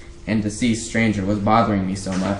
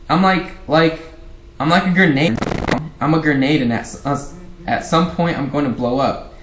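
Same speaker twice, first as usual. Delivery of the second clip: 1 upset outburst; 5 semitones higher than usual. Acted. Teen daughter bursts out at parents.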